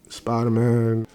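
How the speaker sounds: normal talking voice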